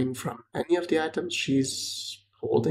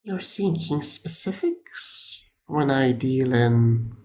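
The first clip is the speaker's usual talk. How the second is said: lightly voiced cryptic seer, pausing between phrases; hint of an enigmatic merchant, measured and halting; mysterious trader. Trader speaking of visions to an adventurer, lightly voiced mystic.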